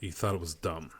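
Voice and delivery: mock-scandalized hushed question; shocked whisper. Real, not acted. Friend reacts to blunt verdict.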